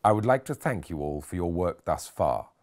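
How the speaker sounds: a hint of a cut-glass upper-class English accent, unhurried start; patrician impression. Nurse mimicking Henderson's posh speech, light cut-glass English accent. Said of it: "assuming a patrician tone".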